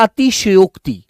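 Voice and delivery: अतिशयोक्ति said slowly and clearly, syllable by syllable; teacher dictating a word; careful dictation. Shown as a demonstration. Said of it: "अतिशयोक्ति लिखकर दिखाएंगे".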